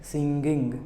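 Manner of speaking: singing slow with hard g at both ng; wrong way. Shown as a demonstration. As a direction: show the mistaken singing. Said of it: "not singing".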